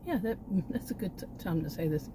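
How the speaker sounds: breathless, winded speech; out of breath. Real, not acted. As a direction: talk while still catching your breath. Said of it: "I'm often out of breath again".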